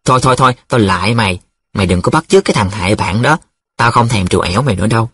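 fast, mildly alarmed backpedalling; panicky pleading. Acted. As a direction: rush to take it back. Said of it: "Nhiệm hoảng hồn". (hoảng hồn, van lơn)

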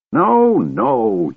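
put-on high-pitched old man's yell. A narrator's reading. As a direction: yell a frantic correction. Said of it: "yelled the old man".

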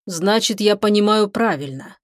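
plain reading voice

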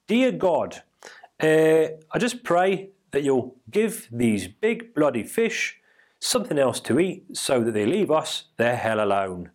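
praying in a mock Australian accent; poor Australian accent. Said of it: "my really poor Australian accent".

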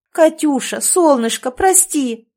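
high, loud, fast apologetic chatter; rapid chatter. A narrator's reading. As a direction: rattle it off breathlessly. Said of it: "затараторила женщина".

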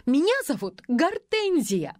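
outshout the director; shouting over him. A narrator's reading. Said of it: "переорала парня девица".

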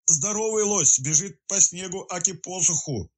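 high, slow, gasping for air; puffing out words while wading through snow; breathless. A narrator's reading. Detective out of breath while running through snow. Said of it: "задыхаясь, выпалил он".

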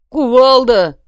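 loud shout of the name; forced shout. Acted. Bulyzhnik shouting the name when ordered, loud. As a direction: yell it as ordered.

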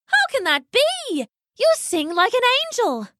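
tiny fairy, astonished and admiring. Acted. Fairies marvel at Loosemore's singing, high and amazed.

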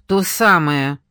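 mock gruff retort; rude snap. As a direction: bite back rudely. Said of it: "грубо рявкнула Юля".

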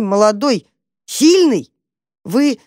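high, bewildered little mouse; bewildered squeak. A narrator's reading. Mouse Tam pleading with the dog, squeaking. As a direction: squeak it out, at a loss.

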